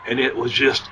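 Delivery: hoarse, voice giving out; losing voice. Real, not acted. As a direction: talk through a worn-out hoarse voice. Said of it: "I'm losing my voice".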